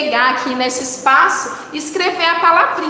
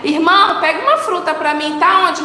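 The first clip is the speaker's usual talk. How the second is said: asking a brother; 2 semitones higher than usual. Acted. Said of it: "A gente pede pro irmão".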